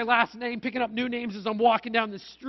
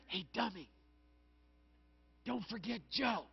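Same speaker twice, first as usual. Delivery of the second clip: mock whisper; 9 dB quieter than usual. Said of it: "whisper in his ear".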